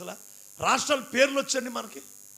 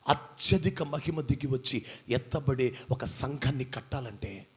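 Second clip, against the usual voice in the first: quiet preaching; 12 semitones lower, 6 dB quieter than usual. Acted. Preacher explaining the tribe of Judah to the church, low and hushed. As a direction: draw the congregation in close and hushed.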